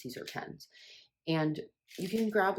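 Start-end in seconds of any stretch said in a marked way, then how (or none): 0.0-0.7 whispered aside. Real, not acted. Self-correcting aside.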